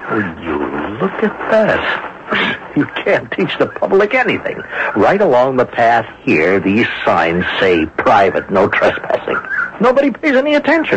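exasperated grumbling. Acted. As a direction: throw up your hands at the public. Indignant about trespassing picnickers.

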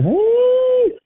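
sudden high call across the room. Real, not acted. Preacher calling out to someone in the room. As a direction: call out to get attention.

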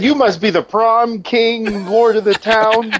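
high, slow, hammed-up royal announcement; mock grandiose praise. Friend retells dad's flattery to the preacher, mock herald. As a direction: crown him like a herald, half joking.

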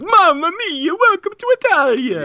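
put-on high, sing-song Italian accent welcome; hammed-up Italian host greeting; booming sing song welcome.

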